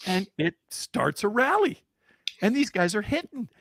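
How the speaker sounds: high, loud, building excitement; excited storytelling. Real, not acted. Father tells how the rally starts, excitedly. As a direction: carry the crowd into the comeback.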